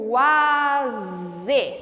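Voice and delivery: Quase drawn out slowly to count sounds; slow teaching demo. Shown as a demonstration. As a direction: stretch it, counting each sound. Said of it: "a cada som que você produzir".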